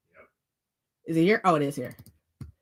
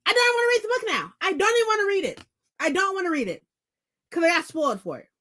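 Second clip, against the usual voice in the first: mock sulking; 7 semitones higher, faster than usual. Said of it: "and I was like".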